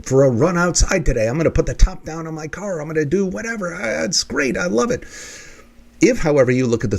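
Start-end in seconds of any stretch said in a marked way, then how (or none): 0.0-5.1 much higher, bright sing-song delight; playful cheerful voice of a positive person; cheery optimist. Retold or imitated. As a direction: gush like a sunny optimist. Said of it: "your desired end is".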